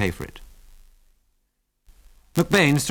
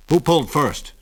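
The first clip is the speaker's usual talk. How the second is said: pointed, higher-pitched demand; 6 semitones higher, 4 dB louder than usual. A narrator's reading. Constable questions two brawlers, demanding. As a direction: demand an answer from both. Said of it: "he demanded".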